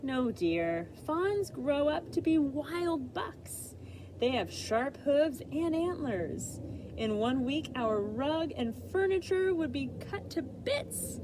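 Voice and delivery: mom's refusal. Acted. Mom refusing in story.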